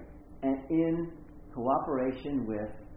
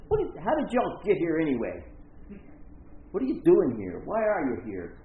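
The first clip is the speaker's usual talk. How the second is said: frustrated Clint Eastwood; 3 semitones higher, 3 dB louder than usual. Retold or imitated. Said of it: "he's just real frustrated".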